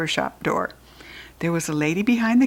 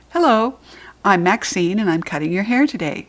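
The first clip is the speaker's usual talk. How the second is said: nice. Acted. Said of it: "she said real nice".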